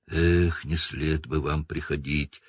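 lightly voiced sad Hagrid; a touch of gloom, sighing; saddened. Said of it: "опечалился Хагрид".

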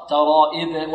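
الترائب with an e-like hamza vowel; slackened i in الترائب; faulty kasra. Shown as a demonstration. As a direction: show the error, "eb" at the end of الترائب. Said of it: "خطأ".

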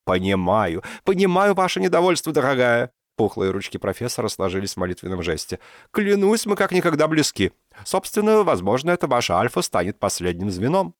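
smooth her over, hands pressed together; placating professor. A narrator's reading. Professor placates annoyed Dinka with promises, high and soothing.

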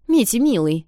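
effusive high greeting; gushing aunt. Acted. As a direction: gush over him like a doting aunt.

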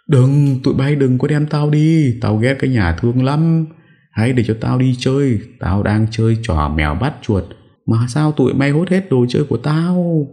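put-on high-pitched crazed old woman; bà cụ la hét. A narrator's reading. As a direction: wail in protest like a childish, confused granny. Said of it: "Nghe thấy bà cụ hét lớn". (giọng bà cụ điên, cao vút phản đối)

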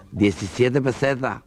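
slow toothless mumble. Acted. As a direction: say it slowly as if your dentures are out. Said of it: "se quita la dentadura".

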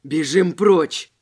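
loud, panicked shout. A narrator's reading. Second robber fleeing the devil's mark, loud shout. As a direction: yell to flee. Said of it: "крикнул второй".

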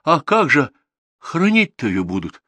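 high, loud, wailing worry; agitated village woman fretting shrilly; flustered alarm. A narrator's reading. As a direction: burst out in sudden agitation. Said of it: "вдруг всполошилась".

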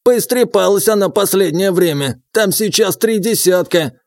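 put-on old prospector. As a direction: tell it like a gossiping old-timer. Old man voiced.

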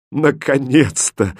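slow, drawn-out sigh of relief; relieved exclamation. Acted. King finally hearing her consent, relieved exclamation. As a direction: let the relief pour into it. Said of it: "с облегчением воскликнул король".

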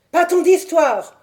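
hurlement bien plus haut et plus fort; hurlé. Acted. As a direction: hurler pour faire fuir. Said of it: "hurla monsieur Sherman". (Sherman hurle à l'intrus de déguerpir)

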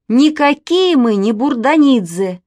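обиженная девочка, выше и громче; с детской обидой; обиженно. A narrator's reading. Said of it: "обиделась Манечка". (обиженно и громко)

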